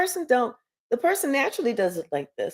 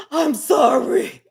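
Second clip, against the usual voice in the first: gasping apology; 4 semitones higher, slower than usual. Acted. Remorseful King begging forgiveness.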